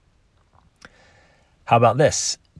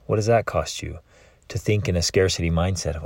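ordinary talk, nothing marked

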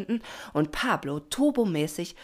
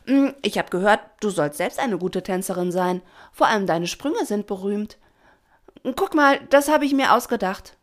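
loud, raised, chatty voice; eager young dolphin; 4 semitones higher, 7 dB louder than usual. A narrator's reading. Pina improvises to stall Doña Rosa, eagerly and loudly. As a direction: flatter her to keep her there.

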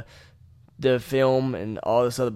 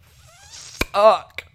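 frustrated curse; 7 semitones higher, 3 dB louder than usual. Retold or imitated. Reacting to cracked camera.

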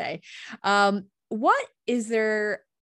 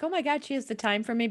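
quick, higher gushing fan voice; mock fangirling; 6 semitones higher, faster than usual. Host imitating herself fangirling over her guest, quick and gushing. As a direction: gush like a starstruck fan, half joking. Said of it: "fangirl, like".

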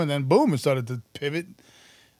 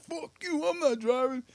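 angry refusal; 12 semitones higher, 3 dB quieter than usual. Retold or imitated. Retold hungover tour manager refusing.

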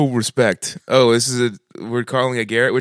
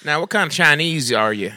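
racist Southerner. Shown as a demonstration. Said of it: "being a racist Southerner asking".

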